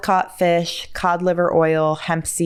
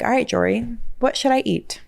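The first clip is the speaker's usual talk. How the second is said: higher-pitched imagined viewer asking; pretend viewer question; 6 semitones higher, faster than usual. Viewer asks Jory what to eat, playful pretend question. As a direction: ask it as an eager listener, pitched up. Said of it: "you're like".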